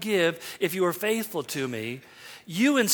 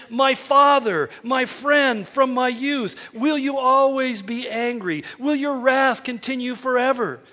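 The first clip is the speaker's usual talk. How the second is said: mock pleading shout; 3 semitones higher than usual. Quoting the people's plea.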